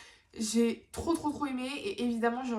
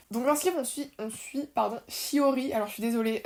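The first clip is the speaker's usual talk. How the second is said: after wisdom teeth. Real, not acted. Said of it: "entre les dents de sagesse où j'ai du mal à parler".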